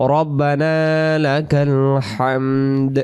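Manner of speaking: slow, drawn-out Arabic prayer phrase; measured, sustained recitation; model recitation. Shown as a demonstration. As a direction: recite with long vowels and a clear final d. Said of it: "আমরা বলবো".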